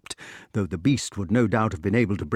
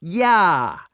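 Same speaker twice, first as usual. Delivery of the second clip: loud, higher-pitched cry; raised, louder shout; 6 semitones higher, 5 dB louder than usual. A narrator's reading. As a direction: cry it out from a cell. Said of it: "cried the imprisoned inventor".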